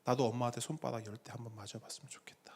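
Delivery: low, hushed, whispery wistful murmur; tearful wish. Retold or imitated. Orphan answering a friend who complained about mom, tearful wish. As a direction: voice an orphan's quiet longing. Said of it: "눈물을 툭툭 흘리면서".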